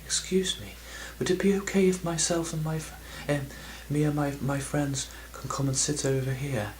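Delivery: "Excuse me" in only a hint of posh English; a lighter, barely posh English request; toned-down posh accent. Retelling the polite request to the stranger, in a faint posh English accent. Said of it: "Actually, not that posh".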